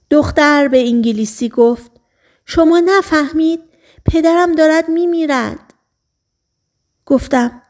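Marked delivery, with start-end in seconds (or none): 2.5-5.7 desperate plea. Acted. Girl begs for dying father.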